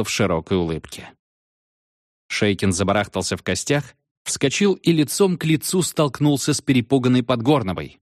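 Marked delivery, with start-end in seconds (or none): none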